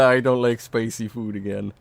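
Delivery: mimicking Stu. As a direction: quote him in a goofy voice. Quoting Stu's catchphrase, higher.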